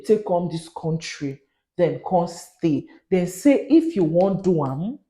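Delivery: Nigerian Pidgin news bulletin; Pidgin news delivery. Shown as a demonstration. Vlogger explaining the student route to Nigerians, Pidgin news delivery. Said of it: "it feels like I'm giving news in pidgin".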